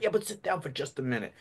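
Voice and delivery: a hint of the grandpa character. Shown as a demonstration. Grandpa coaxing the child before dinner, lightly voiced character. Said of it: "It's obvious with the change of voice".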